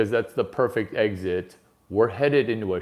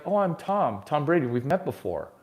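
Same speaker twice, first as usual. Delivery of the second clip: imitating Brady; 4 semitones higher than usual. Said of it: "And he's like".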